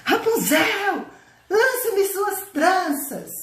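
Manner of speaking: slow, high, drawn-out imitation of the witch's call; prince imitating witch. Prince mimics the witch at the tower foot, slow high call. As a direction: fake the witch's call to fool her. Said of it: "Imitou lá a voz da bruxa".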